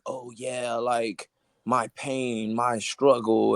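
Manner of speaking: softly mocking tale of struggle; mock hardship story. Musician parodying the clichéd origin story, softly mocking. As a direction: drop the volume for a quiet mock sob story. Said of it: "it wasn't no shit like that".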